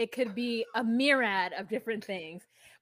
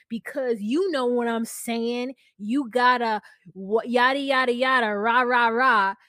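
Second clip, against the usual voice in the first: mock excuse; 7 dB louder than usual. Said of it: "he's like".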